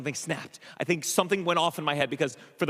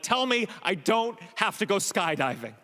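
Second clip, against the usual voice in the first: freaking out; 4 semitones higher than usual. Retold or imitated. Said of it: "on the screen freaking out".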